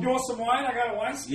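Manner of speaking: tipsy high slurry offer; drunk character voice. Acted. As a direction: push wine on them, loud and boozy.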